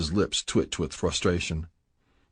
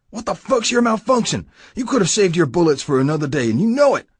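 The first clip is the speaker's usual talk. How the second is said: much higher, louder angry reproach; angry boss; 9 semitones higher, 5 dB louder than usual. Acted. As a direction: tear into him after slamming him. Prez slams him against wall.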